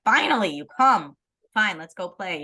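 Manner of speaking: mock exasperated huff; grudging, with a punch on the first word; resentful. Friend kept waiting greets the latecomer, resentful. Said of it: "I'm gonna be resentful".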